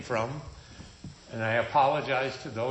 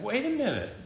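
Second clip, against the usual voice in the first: retold confrontation; 9 semitones higher than usual.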